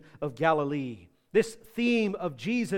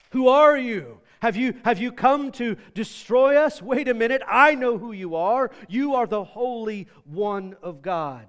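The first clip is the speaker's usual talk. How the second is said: demon confronting Jesus; 4 dB louder than usual. Acted. Demon recognizing the Holy One of God, mildly alarmed challenge. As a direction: voice an alarmed demon, lightly acted.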